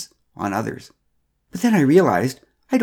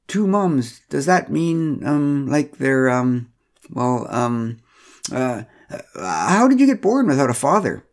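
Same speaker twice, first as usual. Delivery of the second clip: flustered Pamela; 3 semitones higher, slower than usual. Acted. Pamela quizzing Megan, flustered then blurting.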